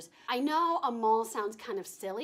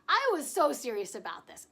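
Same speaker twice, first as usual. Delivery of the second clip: laughing while saying it; 3 semitones higher, 3 dB louder than usual. Real, not acted. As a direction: giggle through the words. Same line repeated laughing.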